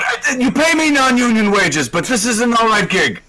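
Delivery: high, cocky robot voice; Shock Dave voice. Acted. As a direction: brag like a hired alien.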